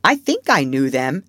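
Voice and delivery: put-on hesitant child, unsure of his memory; rather doubtful. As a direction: say it as if not quite sure. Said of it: "rather doubtfully".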